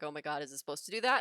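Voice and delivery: quick, worried question, lightly acted; rushed, mildly alarmed imitation; mock concern. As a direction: blurt it out like a concerned lab partner. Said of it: "getting real concerned".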